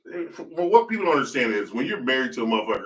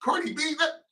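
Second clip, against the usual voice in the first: drawn-out, higher dismissive quote; mock dismissive; 13 semitones higher, 5 dB quieter, slower than usual. Mocking the gossip news, slow high dismissive quote. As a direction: stretch it slowly, shrugging it off. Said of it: "I was like".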